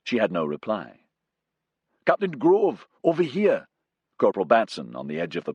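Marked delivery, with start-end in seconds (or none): 2.1-3.7 high, loud call across the parade ground. A narrator's reading. Corporal calling the captain over, loud. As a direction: shout for the captain from afar.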